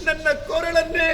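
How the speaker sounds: crying. Acted. Stepmother reproaching her daughter, sobbing loudly. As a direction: cry it out as a wounded stepmother. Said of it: "ಯಾಕ್ ಅಳ್ತೀಯ?".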